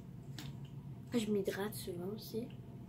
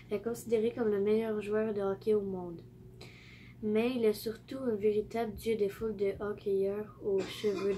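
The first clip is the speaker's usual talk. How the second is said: reading aloud. Real, not acted. Vlogger reading her book's back cover to viewers, reading aloud. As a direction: read the blurb out clearly, phrase by phrase.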